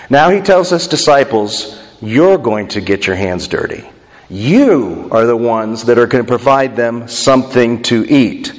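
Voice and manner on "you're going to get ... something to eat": low, firm charge with "You" picked out; firm stress on "You", the rest settling low; emphatic YOU. Acted. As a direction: lean on each opening "You". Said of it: "calls on them emphatically".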